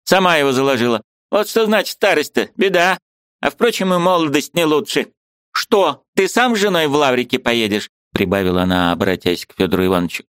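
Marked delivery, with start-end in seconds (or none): 0.0-7.9 put-on high, fussy old woman; a bustling old aunt, pitched high; old aunt's voice. A narrator's reading. Old aunt shooing the niece, high fussy voice.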